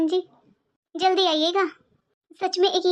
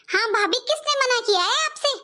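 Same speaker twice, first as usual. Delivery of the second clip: a snide sister-in-law voice, pitched higher; taunting sister-in-law; 5 semitones higher than usual. Acted. Sister-in-law taunting the daughter-in-law, snide.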